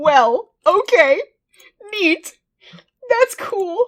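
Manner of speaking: very high, loud words spoken through laughter. Reacting to a game's text on stream, laughing while talking. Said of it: "*through laughter*".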